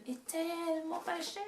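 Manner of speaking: cutesy high voice. Acted. Showing cute cheap purchases.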